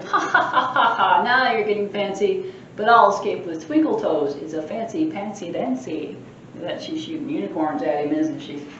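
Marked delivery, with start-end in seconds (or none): 0.0-1.2 a lightly voiced cheeky ha ha; leprechaun laugh. The leprechaun laughing at the trap, gleeful. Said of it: "And he's laughing". 1.2-6.2 a lightly voiced mischievous leprechaun boasting; cheeky leprechaun. Librarian reading the leprechaun's boasts aloud, cheeky.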